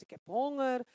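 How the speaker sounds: a hint of a hungry soul, near her own voice; lightly voiced hungry soul, loud and even; soul's hunger. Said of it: "Die ziel zegt".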